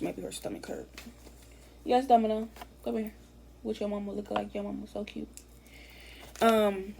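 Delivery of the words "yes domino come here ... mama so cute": cooing to pet. Real, not acted. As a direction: coo gently at a crying puppy. Cooing to her crying dog.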